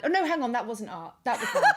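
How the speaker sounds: squeaky high laugh through the words; real giggle at own mix-up; laughing realization. Real, not acted. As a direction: catch yourself and laugh. Realizes her mistake, laughing.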